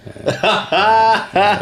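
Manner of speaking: imitated laughter. Caller's mate laughing on loudspeaker, imitated laughter. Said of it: "his mate starts laughing".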